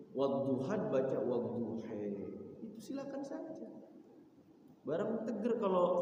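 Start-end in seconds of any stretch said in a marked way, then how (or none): 0.1-2.0 WADDUHAN turned into WADDUHE, the last a tilted to e; imalah reading. Shown as a demonstration. Teacher showing students how Nafi reads wadduhe, with imalah. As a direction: tilt the final vowel of wadduhan toward e. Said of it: "banyak imalahnya".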